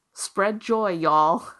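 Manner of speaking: a hint of a Southern accent, breaking into a laugh; half-hearted Southern accent, laughing at herself; Arwen Lynch Southern accent. Quoting her friend's sign-off to listeners in a light mock Southern accent. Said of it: "I don't know if I can do that Southern accent".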